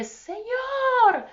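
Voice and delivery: a retold desperate call "Señor"; retold cry out. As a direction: cry out to the Lord in a high voice. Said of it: "grité y dije".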